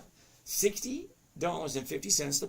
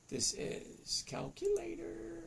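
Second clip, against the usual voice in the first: high, slow mock robot voice; robot calculator voice; 3 dB quieter, slower than usual. Host voicing his calculator app for viewers, mock robot voice. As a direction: play the calculator like a machine talking.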